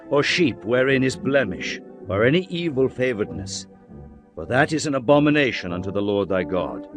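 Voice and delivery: ordinary delivery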